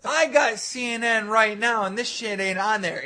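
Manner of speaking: loud, high-pitched mock objection; imitated indignant protest. Victim checks CNN and objects, mock indignant outburst. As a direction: protest loudly as the one who caught the lie. Victim calls out the fake nuke.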